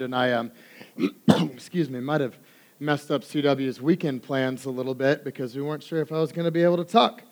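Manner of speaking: hoarse, groggy voice from laryngitis; rough-throated, recovering voice. Real, not acted. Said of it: "bear with my groggy voice this morning".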